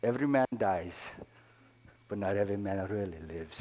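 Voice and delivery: a light hint of a Scottish accent; mild Scottish accent on a film line. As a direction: quote Braveheart with a touch of Scottish. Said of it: "you gotta put the Scottish accent in there".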